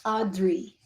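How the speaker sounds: Audrey softly, with the r rolled; "Audrey" with an elfin roll on the r. Shown as a demonstration. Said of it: "I'm putting the roll in".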